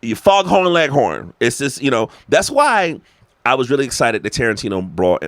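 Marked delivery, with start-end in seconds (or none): 0.1-1.3 high, slow cartoonish Southern drawl; stretched-out, hammed-up Southern voice; mock Southern accent. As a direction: caricature an overdone movie Southern accent. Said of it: "Southern accent, accents in movies".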